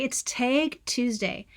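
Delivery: tag with a flat Midwest vowel, slow; Midwest accent. Real, not acted. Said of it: "tag is supposed to sound like cat".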